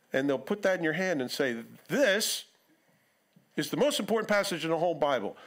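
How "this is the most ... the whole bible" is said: mock cult leader. Cult leader handing you a verse, mock hyped pitch. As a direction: hype it like a cult recruiter.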